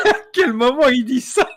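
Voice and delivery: high, loud laughing; talking through tears of laughter. Real, not acted. Both cracking up.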